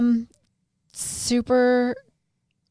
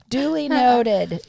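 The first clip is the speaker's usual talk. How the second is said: slow and deliberate; 3 semitones higher, 5 dB louder, slower than usual. Acted. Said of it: "I don't know who that might have been directed to".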